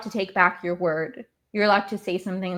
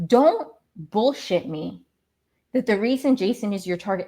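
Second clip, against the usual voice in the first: real anger. Real, not acted. Fan calling out a player's excuse, angry. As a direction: draw the words out, fed up. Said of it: "I'm already getting so mad".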